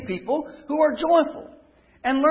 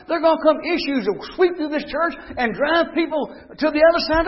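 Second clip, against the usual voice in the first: urging brethren; 3 semitones higher than usual. Acted. Apostle voiced urging brethren.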